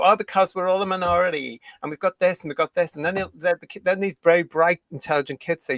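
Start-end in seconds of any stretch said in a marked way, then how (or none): 0.0-3.0 mocking activist. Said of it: "And they'll go".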